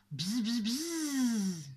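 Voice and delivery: long imitation bee buzzing. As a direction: buzz and hold it. Narrator imitates stinging bee. (bourdonnement d'abeille prolongé)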